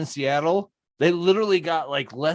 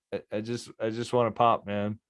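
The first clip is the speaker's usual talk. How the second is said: whiny plea; 6 semitones lower, 7 dB quieter than usual. Retold or imitated. Asking for a pop in Texas.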